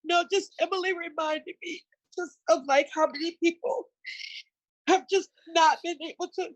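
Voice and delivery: real tears while speaking; talking through a choked-up cry. Real, not acted. Guest grieving her grandmother, tearful and real. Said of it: "I'm such a crybaby".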